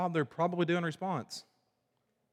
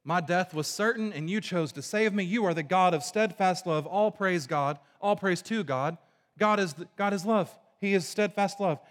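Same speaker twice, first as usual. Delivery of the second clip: higher, louder rejoicing prayer; joyful praise; 4 semitones higher, 3 dB louder than usual. Retold or imitated. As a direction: lift it up like a happy thanksgiving. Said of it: "talks about it in this positive way".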